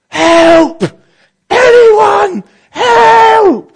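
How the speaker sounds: high, loud cries for help; desperate yelling. Retold or imitated. Trapped climber yelling for help, loud and desperate. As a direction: yell for help across the canyon. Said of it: "he's just yelling".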